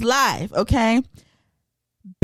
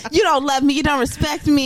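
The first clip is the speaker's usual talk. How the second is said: mock angry rant; 4 semitones higher than usual. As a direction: rant like a betrayed lover. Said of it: "he was like".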